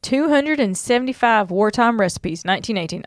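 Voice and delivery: lightly put-on southern accent. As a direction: read it out with a touch of southern twang. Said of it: "saying all these with a southern accent".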